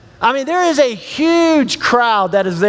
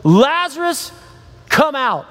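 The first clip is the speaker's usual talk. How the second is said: high-pitched call, no louder than talk; 4 semitones higher than usual. Acted. Jesus calling the dead man from the tomb, calling out. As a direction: summon someone out, raised pitch, measured volume. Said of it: "called out in a loud voice".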